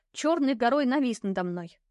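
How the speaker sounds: usual speaking voice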